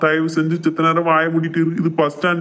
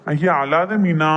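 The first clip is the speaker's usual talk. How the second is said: slow, gentle comfort; soothing; much slower than usual. Acted. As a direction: coax her out of her tears. Husband soothing his crying wife.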